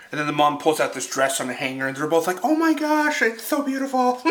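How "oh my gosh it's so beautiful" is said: high, gushing squeal of delight. Retold or imitated. Mother and daughter both swooning over a dress, high gush.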